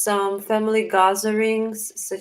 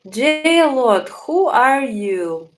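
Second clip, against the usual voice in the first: surprised; 4 semitones higher, 6 dB louder, much slower than usual. Real, not acted. Streamer reacts to odd chat name.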